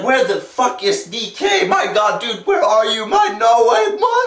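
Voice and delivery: mock-frantic yell rising at the end; frantic calling. Acted frantic search for friend.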